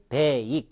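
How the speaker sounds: "bake" drawn out with the tune rising at the end; odd-sounding intonation. Shown as a demonstration. Teacher shows students what sounds strange, "bake" with an odd rise. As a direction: say "bake" wrongly, bending it upward. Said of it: "이상하죠?".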